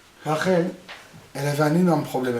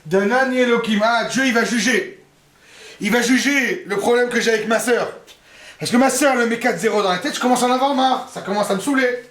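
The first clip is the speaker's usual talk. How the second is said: higher, louder fed-up complaint; exasperated Rachel; 5 semitones higher, 3 dB louder than usual. Acted. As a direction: vent to God about your sister. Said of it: "comment est-ce qu'elle l'appelle". (Rachel exaspérée, voix haute et forte)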